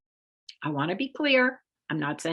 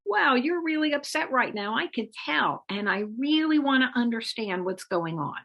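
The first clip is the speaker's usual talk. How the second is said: gentle acknowledgment; 4 semitones higher than usual. Shown as a demonstration. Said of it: "by saying something like".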